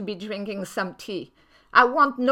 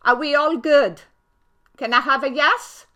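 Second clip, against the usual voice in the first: raised voice calling to the audience; loud call-out; 3 semitones higher, 6 dB louder than usual. Real, not acted. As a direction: call out loudly for a yes. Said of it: "Maybe I screamed too loud".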